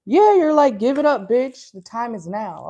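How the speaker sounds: high, loud burst easing off at the end; acted aggressive demand. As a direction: come in loud and pushy, then settle. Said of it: "Why is it so aggressive?".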